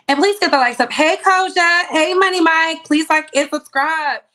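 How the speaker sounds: loud hype calling out to the chat; amped greeting. Real, not acted. Host hyping her livestream viewers, loud and amped up. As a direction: shout the greetings to the live chat.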